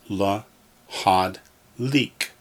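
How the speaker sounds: "la, had, leak" in three separated syllables. Shown as a demonstration. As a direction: pause after "la" and after "had". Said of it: "Or put it all together".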